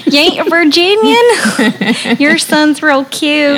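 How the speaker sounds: high, slow Southern drawl; mock Virginian accent. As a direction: put on a drawn-out Virginia twang.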